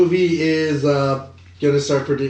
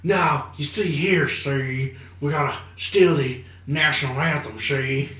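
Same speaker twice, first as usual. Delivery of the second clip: bad Bogart impression; 4 dB quieter, slower than usual. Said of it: "Nicolas Cage try to do that".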